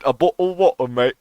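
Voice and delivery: mock British "bottle of water, mate"; imitating a British bloke; British accent. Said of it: "Every British person".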